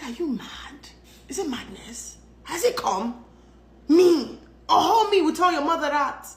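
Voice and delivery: outraged at her husband, rising into a yell; indignant yell. Retold or imitated. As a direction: blast him in disbelief.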